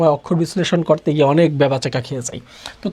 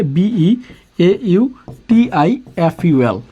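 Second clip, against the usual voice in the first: spelled letter by letter; much slower than usual. Shown as a demonstration. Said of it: "এভাবে উচ্চারণ করবে".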